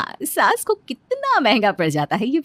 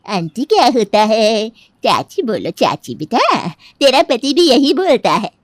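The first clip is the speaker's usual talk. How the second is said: lightly voiced elderly neighbour, loud and emphatic; scolding old auntie; 5 dB louder than usual. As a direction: play a chatty old auntie, projecting firmly. (बुज़ुर्ग चाची की ऊँची, ज़ोरदार आवाज़)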